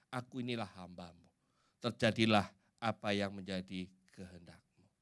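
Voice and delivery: soft, low quote of a servant's yes; quoted humble submission. Acted. Mary accepts God's will despite the threatened punishment, quietly submissive. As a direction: voice Mary's surrender quietly and low.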